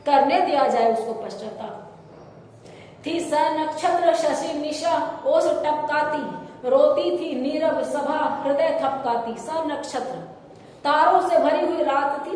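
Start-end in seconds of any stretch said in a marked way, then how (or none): 3.1-9.3 slow, measured verse reading; unhurried Hindi poem recital; poem recitation. Acted. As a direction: draw out the couplet in metre.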